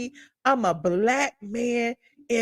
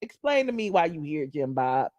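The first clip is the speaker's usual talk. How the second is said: cop voice; 2 semitones lower, 3 dB quieter than usual. Retold or imitated. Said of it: "they pull him over to the side".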